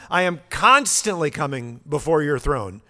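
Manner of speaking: "constantly" hit hard on CON; emphatic "constantly", then on through the phrase; stress on CONSTANTLY. Shown as a demonstration. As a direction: punch the word "constantly" with force. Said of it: "there's that emphasis there".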